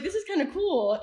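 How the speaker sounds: delighted, giggly verdict; laughing approval. Retold or imitated. Laughing as she tells how she took to the campus.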